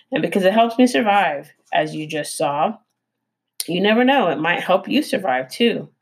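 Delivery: lightly voiced theatrical opossum; a hint of the eager opossum, urging. Opossum character voice.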